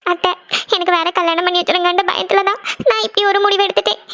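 mildly tearful confession; acted crying. Daughter-in-law explaining the hasty wedding to her aunt, tearful. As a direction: apologise through held-back tears. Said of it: "Janani, அழாதம்மா".

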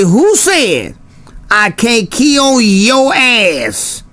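slow, drawn-out "Who said I can't key on your ass?"; catchphrase demo. Shown as a demonstration. To Wild Dog, showing how to say the catchphrase, slow and drawn out. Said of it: "all you gotta do is say it just like this".

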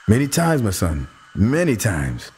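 chuckling, knowing reply; a wise old man's gentle amusement; amused. Acted. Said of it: "Uncle Suzu said it in an amused tone".

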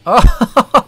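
sudden high startled "Oh!"; startled gasp. Real, not acted. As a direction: caught off guard by a jump. Startled by horror clip.

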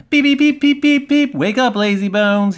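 high, loud beeps into a piercing wake-up call; whistling train engine. A narrator's reading. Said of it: "he would whistle".

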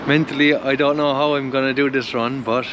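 talking with a numb jaw; numb from the dentist. Real, not acted. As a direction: mouth numb after a filling. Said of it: "my mouth is numb. I can barely talk".

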